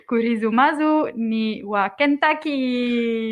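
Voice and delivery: careful, slow Japanese "Kurizumazu ni wa Kentucky" with even syllables; Japanese pronunciation. Shown as a demonstration. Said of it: "Now I will try to say it in Japan".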